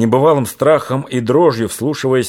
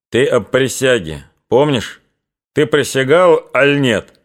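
needling; 3 semitones higher than usual. Acted. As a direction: needle him about the oath. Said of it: "Привязывался Чубатый".

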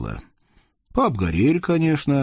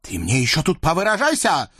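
строго; 7 semitones higher than usual. Acted. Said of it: "строго напомнил".

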